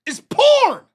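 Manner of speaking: high shocked squeak; mock alarmed question; surprised.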